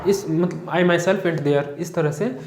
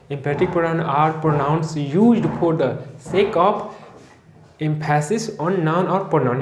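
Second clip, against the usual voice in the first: words spaced out very slowly; slow dictation; much slower than usual. Shown as a demonstration. Teacher dictating notes to the class, very slow. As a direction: dictate at writing pace.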